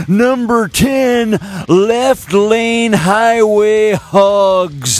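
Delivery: put-on slow, creaky grumpy old man. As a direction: read it like a cranky grandpa. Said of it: "do my old man voice".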